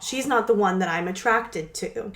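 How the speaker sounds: imitating an emphatic protest; mildly acted insistence; intense denial. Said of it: "he's really intense about it".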